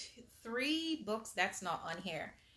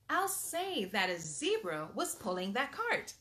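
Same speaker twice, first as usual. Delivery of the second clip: lively storybook reading aloud; animated read-aloud for little kids; reading to children. Acted. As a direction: read it like bedtime story time. Reads picture book aloud.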